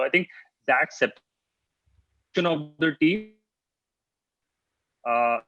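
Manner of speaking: breaking up. Real, not acted. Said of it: "sorry, you're breaking up again".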